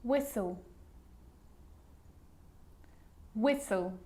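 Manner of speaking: "Whistle" as WISS-ul, no T; careful, separate models of "Whistle"; silent T. Shown as a demonstration. Teacher showing the sneaky T, careful repeated model. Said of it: "it can also be silent".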